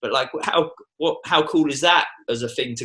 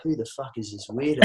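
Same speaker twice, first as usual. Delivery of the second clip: laughing mock suspicion; 4 dB quieter than usual.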